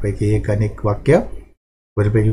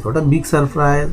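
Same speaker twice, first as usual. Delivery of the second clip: higher, slow exclaimed surprise; surprised; 5 semitones higher, much slower than usual. Shown as a demonstration. Teacher voicing the girl's surprise in a lesson, slow and exclaimed. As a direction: read it as a slow, rising exclamation. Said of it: "आश्चर्यचकित झालेले आहे".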